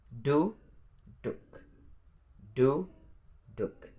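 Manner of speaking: duduk split into du... duk; syllable by syllable. Shown as a demonstration. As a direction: say duduk in two pieces, rising on du. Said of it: "There are two syllables in this word".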